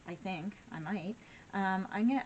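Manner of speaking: talking through a building sneeze; about to sneeze. Real, not acted. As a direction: hold back a sneeze mid-sentence. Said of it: "I'm gonna sneeze".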